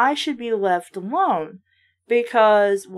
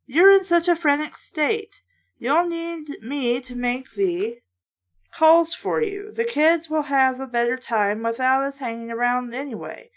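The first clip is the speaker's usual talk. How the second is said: a lightly voiced read-aloud of a horror book; reading the story steadily to listeners; story narration. A narrator's reading. Reader narrating a kids' horror book, lightly voiced.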